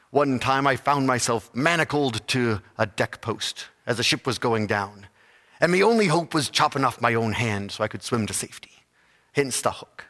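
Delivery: pirate voice. Acted. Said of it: "in his piratey voice".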